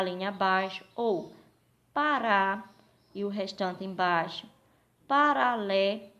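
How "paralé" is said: slow, drawn-out syllables of a split word. Shown as a demonstration. Teacher showing how to separate a word, syllable by syllable. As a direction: stretch out each syllable of "paralé". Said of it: "e separando".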